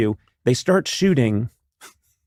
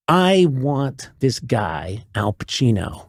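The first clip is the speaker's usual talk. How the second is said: very slow, deliberate declaration; measured mock-director pronouncement; insistent director; slower than usual. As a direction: lay it down word by word. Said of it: "and he says".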